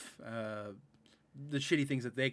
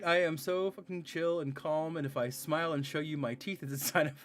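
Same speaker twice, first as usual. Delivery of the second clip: playful mock boast that gets louder; mock chill persona; 3 semitones higher, 3 dB louder than usual. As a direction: brag about calm with rising excitement. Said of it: "joking animal quote, pitch up".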